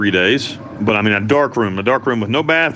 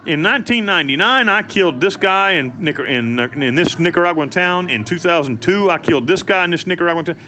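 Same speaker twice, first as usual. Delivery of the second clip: reading the fake confession aloud, pitched higher in disbelief; disbelieving read-out; 5 semitones higher than usual. Reading the forged confession he was handed, higher and incredulous. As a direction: read it like you can't believe what's written.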